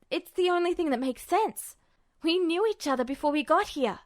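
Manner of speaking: put-on emphatic, urgent young voice; insistent Ed. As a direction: drive every point home eagerly. Ed argues his theory.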